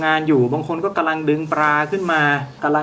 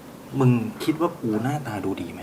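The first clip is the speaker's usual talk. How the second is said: a hint of a sneering fisherman, softer; scornful fisherman; 3 semitones lower, 5 dB quieter than usual. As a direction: mutter it scornfully to your buddy. GM voices fishermen mocking her. (ชาวประมงพูดเยาะกับเพื่อน)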